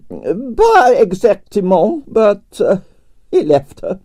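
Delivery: put-on high, theatrical Russian accent with drawn-out vowels; grand Russian ballerina complaining about her night; Russian prima ballerina. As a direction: play the dramatic Russian diva. Arienskaya held voice.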